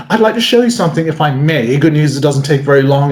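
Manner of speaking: courteous, understated British magician's opener; a hint of reserved British formality; polite British. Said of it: "the British approach".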